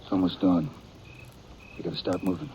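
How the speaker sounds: soft, hushed urgency; whispered. Acted. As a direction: outlaw whispering to his brother at dawn. Outlaws whisper near sleeping man.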